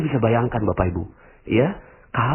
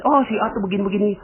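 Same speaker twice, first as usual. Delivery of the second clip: gossiping neighbour; 9 semitones higher, much faster than usual. Retold or imitated. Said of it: "ketika ada yang ngomong".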